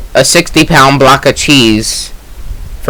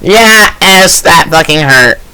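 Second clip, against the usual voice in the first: put-on Mexican accent. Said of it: "a Mexican sounding woman's voice".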